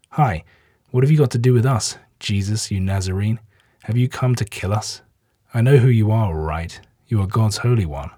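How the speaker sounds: lightly voiced spirit shouting back; demon yelling. Possessed man shouting at Jesus, mild yell. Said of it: "he yelled at the top of his voice".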